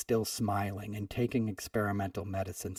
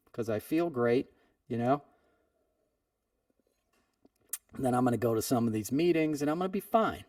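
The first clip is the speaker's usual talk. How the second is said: brash, breezy and overconfident, a touch higher; cocky; 4 semitones higher than usual. Retold or imitated. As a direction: brag like nothing can touch you. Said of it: "I was all cocky with the dude".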